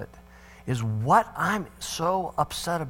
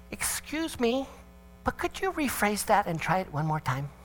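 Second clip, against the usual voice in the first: soft, higher, unangry request; wife's calm correction; 5 semitones higher, 5 dB quieter than usual. Retold or imitated. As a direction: imitate a mother gently correcting a child. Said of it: "she didn't say it in anger".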